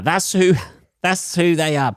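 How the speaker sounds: giggling repeat; laughing. Shown as a demonstration. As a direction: crack up as you repeat it. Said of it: "repeated with laugh".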